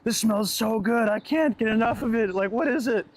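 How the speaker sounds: hammed-up girlfriend loving the smell; a teasing take on her delight; imitating gushing girlfriend. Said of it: "then she's like".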